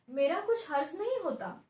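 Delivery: ऊँचे और तेज़ सुर में झुंझलाकर; बेला की झुंझलाहट, थोड़ी ज़ोर से; चिढ़कर. Acted. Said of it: "और भी चिढ़कर कहती है". (बहू सास को चिढ़कर जवाब देती, ऊँची आवाज़ में)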